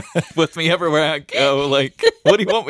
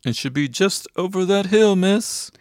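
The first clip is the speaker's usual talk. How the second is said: cab driver; 4 semitones higher than usual. Acted. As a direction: play a cabbie pointing the way, lightly. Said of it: "the cab driver said".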